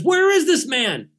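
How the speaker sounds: loud, high, angry question; king furious at his soldier; furious demand. Acted. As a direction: bark it at the soldier. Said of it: "King of Aram is furious".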